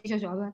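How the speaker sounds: jojoba as "zhuh-ZHAH-bah"; Portuguese pronunciation. Shown as a demonstration. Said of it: "it's prettier".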